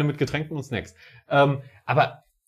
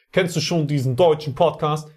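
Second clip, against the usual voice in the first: American accent, stressing deutschen; american accent in german. Shown as a demonstration. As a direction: ask it like an American tourist. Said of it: "ich versuche jetzt einfach mal einen amerikanischen Akzent".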